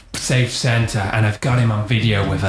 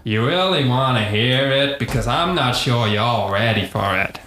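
put-on Texan accent. Santa asked to show his other accent, Texan accent. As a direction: tease them in a Texan accent. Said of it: "but really I'm from Texas".

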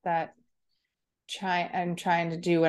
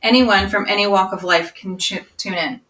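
louder, scripted announcer delivery; podcast outro read; 7 dB louder than usual. Acted. Inviting any listener to tune in, announcer read.

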